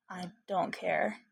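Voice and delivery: slow and gentle; softened voice. Acted. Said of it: "His voice softened".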